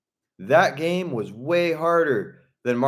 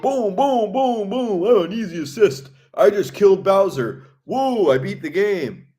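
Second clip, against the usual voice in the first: higher, mock celebratory whooping; mock triumph; 5 semitones higher, 4 dB louder than usual. Gamer sarcastically celebrating beating the boss on easy assist, mock triumph. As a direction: crow over a too-easy victory.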